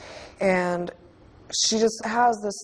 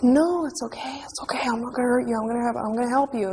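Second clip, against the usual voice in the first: higher-pitched retold comforting; urgent soothing, voice raised in pitch; imitated tearful reassurance; 4 semitones higher, faster than usual. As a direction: retell a crying man reassuring a hurt child. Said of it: "this guy is crying".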